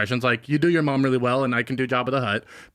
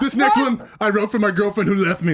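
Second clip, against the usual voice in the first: mock sad song introduction, slightly raised; wedding band frontman; 5 semitones higher than usual. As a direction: announce a heartfelt original, tongue in cheek. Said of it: "I don't want a wedding band doing".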